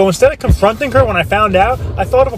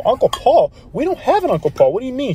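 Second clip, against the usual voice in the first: higher, stunned and confused; shocked disbelief; 7 semitones higher than usual. Retold or imitated. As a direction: react as if the news just hit you. Father hears shocking news on phone.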